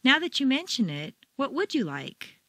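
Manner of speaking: high peak on "would"; stress on WOULD. Shown as a demonstration. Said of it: "You've been discussing the kinds of things".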